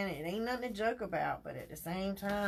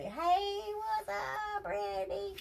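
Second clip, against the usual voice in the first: excited greeting; 12 semitones higher, much slower than usual. Real, not acted. Greeting a viewer joining.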